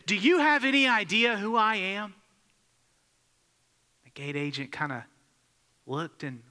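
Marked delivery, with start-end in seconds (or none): 0.1-2.1 higher, louder indignant demand; an arrogant man pulling rank; entitled outburst. Retold or imitated. Angry passenger confronting the gate agent, acted indignation. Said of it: "banged his fist on the counter, and said".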